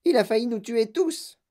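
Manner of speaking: put-on high, outraged old-woman cry; yelled. A narrator's reading. Grandmother accusing Wonka after the crash, yelling. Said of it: "hurla grand-maman Joséphine".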